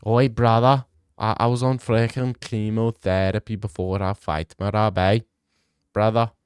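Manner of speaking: muddled mock-Dagestani accent; botched Dagestani accent. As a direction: try a Dagestani accent and miss. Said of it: "Let me try that again".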